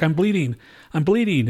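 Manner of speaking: lightly acted distressed cry; imitated hurt alarm. Retold injured girl in crash.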